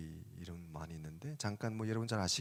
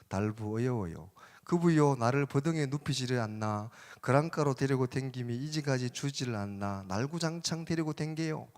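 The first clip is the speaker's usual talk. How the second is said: put-on higher, louder lilting Gangwon-accented recitation; Gangwon dialect; 4 semitones higher, 6 dB louder than usual. Preacher attempts Psalm 23 for listeners, in Gangwon dialect. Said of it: "강원도 버전 잘 못하겠는데".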